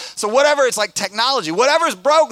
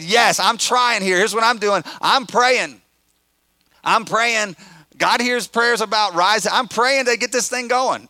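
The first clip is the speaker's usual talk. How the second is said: higher, louder, insistent pleading; earnest pleading; 5 semitones higher, 5 dB louder than usual. Retold or imitated. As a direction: urge them to hang on, eagerly. Retelling his own pleading with kids.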